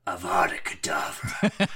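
slow dramatic incantation of the curse; spell-casting cry. Pretend. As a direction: cast the killing curse like a wizard. Acting out Wolverine casting a spell.

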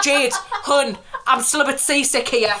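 high, laughing complaint; giggling fake seasick whine; laughing mock seasick plea. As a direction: beg her to slow down through giggles. Carsick while she drives.

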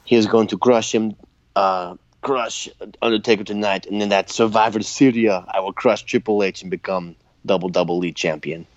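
lightly voiced Russian accent; a hint of a Russian wrestler. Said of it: "Kozlov says something in Russian".

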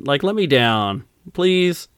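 slow, pleading please that rises high; mock polite plea. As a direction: beg nicely, the devil turned meek. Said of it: "how the devil asks nicely".

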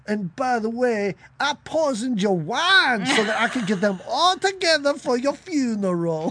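high, gloating line; mock villain reveal. Phoebe gloating at Angela Lansbury, mock villain. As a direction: gloat over the poisoned wine. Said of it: "being like".

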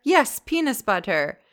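a lightly put-on Japanese accent; coworker's accent, imitated by the daughter; imitating her accent. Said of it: "I don't know what that accent just was".

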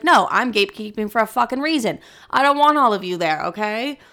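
mock-defiant owning it; proud gatekeeper. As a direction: own it boldly. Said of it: "It's like".

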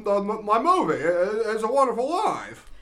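a hammed-up Jimmy Stewart greeting through laughter; Jimmy Stewart impression. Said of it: "random things to say in Jimmy Stewart's voice".

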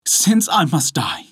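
high, lightly voiced doomed woman; pleading wife. A narrator's reading. Condemned wife answering her husband, pleading.

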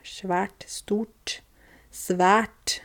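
"Svært" whispered softly to show it; whispered word demo. Shown as a demonstration. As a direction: breathe out "Svært" soft, as a quiet demo. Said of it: "min dialekt kanskje som gjør at det blir sånn sj".

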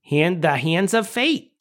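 slow mock Chicago accent. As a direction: stretch the vowels like a Chicagoan. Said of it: "we haven't done a single Chicago accent".

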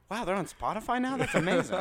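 mock amazement. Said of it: "and they're like".

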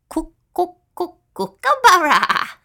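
high cackling bird call; kookaburra laughing call. A narrator's reading. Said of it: "laughed the bird".

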